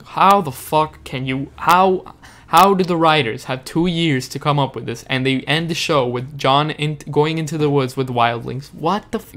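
exasperated outburst, rising in pitch; real frustration. Real, not acted. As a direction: vent your disbelief at the writers. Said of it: "I've never shown this ex-, much expression".

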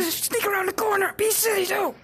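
mock other players. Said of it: "Other people playing this game".

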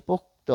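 "পোক্ত" as pok-to, with final o; vowel added at end. Shown as a demonstration. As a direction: open ending on "পোক্ত". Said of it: "ত হসন্ত যোগ অ".

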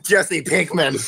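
high, loud, slow yelled name. Acted. Heroine yells the joke name, loud drawn-out yell. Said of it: "I yell".

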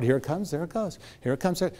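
soft, unhurried, letting it pass; calm, quiet noticing; gentle drifting. Shown as a demonstration. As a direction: watch a cloud float by. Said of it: "it's like a cloud".

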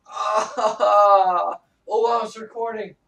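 high pained cry; stubbed toe, yelping and flustered. Real, not acted. Just stubbed toe, in pain.

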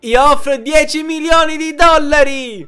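high, grand bidder voice; big-shot bidder. Acted. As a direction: repeat the bid, just as grand. Rich bidder repeats offer. (offerente ricco e teatrale)

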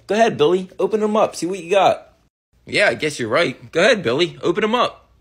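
put-on egging the kid on slyly; scheming big brothers. Older brothers push Billy to open presents, low and sly.

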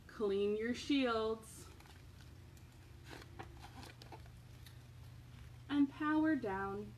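slow storybook read-aloud; reading to children. Acted. Reading a bedtime book to children, gentle storybook voice.

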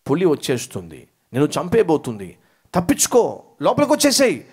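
urgent mock cry of a mother warning her child of the tiger; mother's alarmed shout. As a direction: act out a mother screaming a warning to her boy. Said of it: "గట్టిగా అరిచింది".

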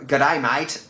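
mock Australian accent. Imitating party boy Aussies' greeting, Australian accent. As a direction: put on a matey Aussie accent. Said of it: "Party Boy Aussies".

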